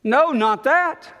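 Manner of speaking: mild Peter balking, slowed; mock Peter refusing. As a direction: push it away in disgust. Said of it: "that's what he's saying here".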